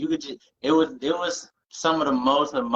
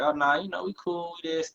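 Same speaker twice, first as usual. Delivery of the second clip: higher-pitched mock-casual reassurance; putting on a facade; 8 semitones higher than usual. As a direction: act like everything's cool, pitched up. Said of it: "I gotta put on this facade".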